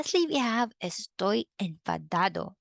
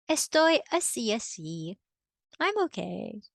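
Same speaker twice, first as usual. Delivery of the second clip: so-so; 2 semitones higher than usual. Shown as a demonstration. Teacher demos so-so gesture.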